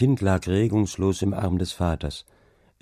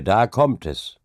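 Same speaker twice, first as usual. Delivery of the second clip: louder exclamation; calling out; 3 semitones higher, 5 dB louder, slower than usual. A narrator's reading. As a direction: call it out to the child. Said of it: "rief Hauke". (laut gerufen)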